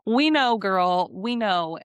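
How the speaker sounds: exasperated agreement. Real, not acted. Commentator answering a contestant's gushing, exasperated. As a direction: cut in, fed up with hearing it.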